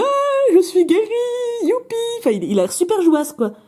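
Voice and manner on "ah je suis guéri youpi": high, thrilled "youpi" cry; overjoyed cured patient. Pretend. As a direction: play the healed patient cheering. (patient guéri fou de joie)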